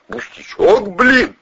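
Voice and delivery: incredulous echo. Acted. Suspect to colonel, incredulous echo. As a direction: doubt the good news.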